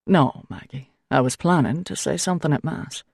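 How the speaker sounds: lightly voiced kindly priest, calming; a hint of a patient older priest; gentle priest. A narrator's reading. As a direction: soothe her, settle her down. Priest's voice in dialogue.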